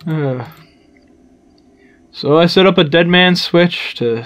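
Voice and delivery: bad Irish accent, lightly done; a hammy Irish brogue. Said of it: "my very bad Irish".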